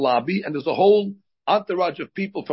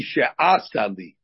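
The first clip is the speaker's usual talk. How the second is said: "she'asa li" stressed early, on the AH; she-AH-sa li, weight on the AH of "she'asa"; grammatical stress; 5 semitones lower, much slower than usual. Shown as a demonstration. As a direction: hit the AH in "she'asa", not the final SA. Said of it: "read it correctly, grammatically".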